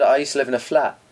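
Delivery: a hint of an Essex accent on "I used to live in a flat."; lightly Essex "flat" with a broad open vowel. Correcting a friend, a light Essex version. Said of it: "if you were speaking in Essex accent".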